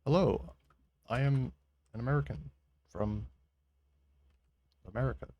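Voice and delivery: stiff mock American, broken by pauses; British-person American accent. Streamer mimicking British people faking American accents, halting mock American. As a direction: imitate a Brit haltingly attempting American. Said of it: "British people doing American accent".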